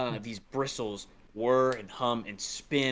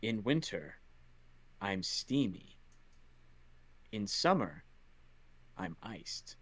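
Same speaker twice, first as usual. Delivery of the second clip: lightly voiced riddler, phrase by phrase; measured, understated riddle recital; riddle-giving voice; 5 dB quieter, slower than usual. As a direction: recite a riddle with long pauses, dropping softly at the end. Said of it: "you hear the voice".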